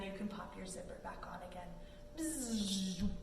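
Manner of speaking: soft whispered aside; hushed storytime whisper. Real, not acted. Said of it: "whispered instruction".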